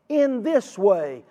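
"In this way" very slow and weighted; slow, deliberate "In this way"; stress on in this way. Shown as a demonstration. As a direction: stretch out "In this way". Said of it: "So much emphasis".

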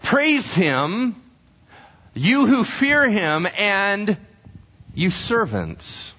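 fervent preacher's summons; preached call to praise. Retold or imitated.

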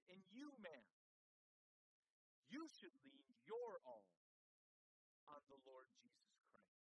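retold shout back. Pastor answering the woman on her porch, mild retold shout. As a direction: call back as the pastor, only half shouted. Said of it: "he shouted back at her".

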